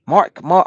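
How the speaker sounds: "Mark" with a full r, said twice; Southern Mark. Shown as a demonstration. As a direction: say "Mark" the way outsiders say it. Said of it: "We say Mark".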